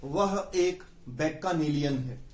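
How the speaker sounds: slow example sentence. Shown as a demonstration. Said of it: "ऐसे प्रयोग होगा".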